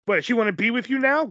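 hammed-up suspicious question; mock jealous accusation. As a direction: imitate a jealous partner needling. Acted jealous partner's accusation.

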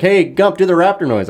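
high teasing schoolkid; egging him on, high-pitched; mocking kids' voice. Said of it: "It's just like".

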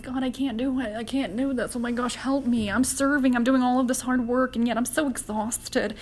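acted-out exasperated prayer; whiny complaint. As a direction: complain like someone overwhelmed. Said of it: "start to complain about them to God".

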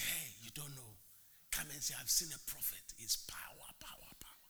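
low, soft, then whispered power power; mock prophet whisper. Preacher mocks a fake prophet, breathy whispered power.

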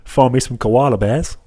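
slow, lightly imitated Australian; Australian accent. Carrying on the accent game, slow Australian accent. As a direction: draw it out in a light Aussie accent. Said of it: "I like to do an Australian accent".

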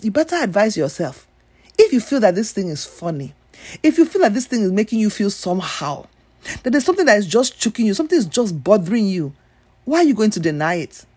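put-on lightly Nigerian-accented scolding. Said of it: "in my Nigerian voice".

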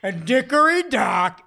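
loud slack-jawed sing-song; dopey voice. Retold or imitated. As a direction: ham it up, dim and cheesy. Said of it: "they're just gonna be cheesy, lame".

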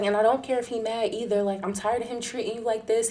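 retold fed up. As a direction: act out a friend who has had enough. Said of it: "He was fed the fuck up".

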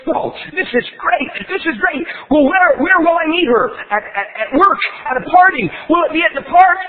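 high, eager, thrilled voice; excited frog. Acted. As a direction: gush with excitement.

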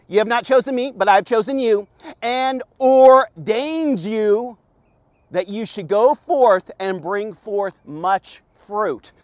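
slow, measured verse reading with pauses; deliberate scripture reading. Real, not acted. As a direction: read it out slowly, word by word. Reads the verse aloud.

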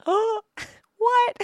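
high-pitched sarcastic gasp; hammed-up shock with a laugh; mock amazement. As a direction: gasp loudly as if astonished, laughing. Mock amazement at online bill payment.

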